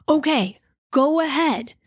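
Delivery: a slow, breathy whisper of giving up; exasperated whisper. Retold or imitated. Caller gives in to the dispatcher's questions, in an exasperated whisper. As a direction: hiss it out like you've run out of patience.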